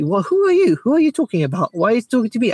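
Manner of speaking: high, offended huffing of a proud scholar; mock indignant scholar. A proud scholar snapping high at a young man. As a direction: play the scholar insulted at being reminded. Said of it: "they will say".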